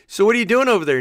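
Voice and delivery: loud, high confrontational challenge; imitating the US. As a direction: call out a rival as the US. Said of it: "he pretends to be China and Russia".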